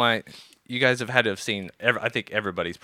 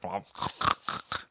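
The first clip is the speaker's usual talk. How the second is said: snorting pig impression; snorting oinking pig; 3 semitones lower, 7 dB quieter than usual. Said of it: "That was my pig impression".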